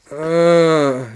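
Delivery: long, drawn-out groan; imitated sleep moan. Imitating his friend moaning on the bedroom floor, long mock moan. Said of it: "these are way too long moans".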